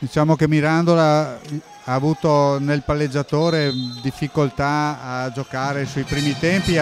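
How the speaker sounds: usual speaking voice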